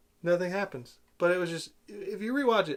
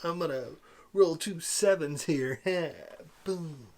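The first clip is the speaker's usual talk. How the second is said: lightly mocked smug gambler; cheesy guy; slower than usual. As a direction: put on a touch of cheesy showmanship. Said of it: "it's just the cheesiest guy ever".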